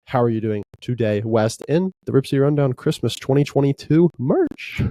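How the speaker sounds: ordinary talk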